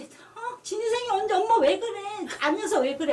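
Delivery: high, startled imitation of the son. Startled son asking mother what is wrong, bewildered. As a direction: retell bewildered questions, pitched well up. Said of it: "놀래가".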